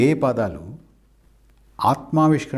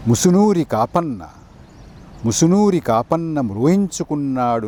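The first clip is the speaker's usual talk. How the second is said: poem recitation. Acted. Presenter reciting the poet's tribute to Telangana, declaimed poem recitation. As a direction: recite line by line, pausing between phrases.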